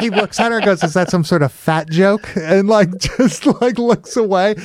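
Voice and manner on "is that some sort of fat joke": dry, understated comeback; dry delivery. Retold or imitated. Movie character answering a woman's remark, dry delivery. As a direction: deliver it deadpan, without a push. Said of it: "his delivery is, like, it's kinda dry".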